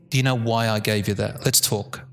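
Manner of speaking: low, measured parent; calm, low tone. Acted. Parent returns to discuss a consequence, calm and low. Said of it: "keep your tone".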